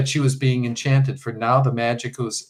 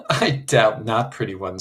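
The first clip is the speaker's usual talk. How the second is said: coaxing, half-mocking. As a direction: humor the girl, half teasing. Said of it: "coaxing, half-mocking tone".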